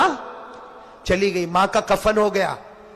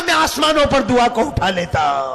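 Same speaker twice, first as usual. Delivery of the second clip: voice of God; 3 semitones higher than usual. Acted. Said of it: "अल्लाह कहता".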